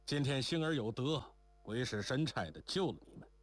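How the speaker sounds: lightly voiced rough man, emphatic; 江湖汉子周七. (略带粗豪地感慨)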